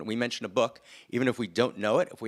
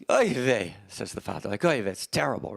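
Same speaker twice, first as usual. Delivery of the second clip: put-on Yiddish accent. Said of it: "in a slight Yiddish accent".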